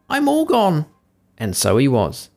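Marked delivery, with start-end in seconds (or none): 0.1-0.9 high, slow, mournful little voice; gingerbread man voice. A narrator's reading. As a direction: wail it slowly like a tiny cookie. Gingerbread man being eaten.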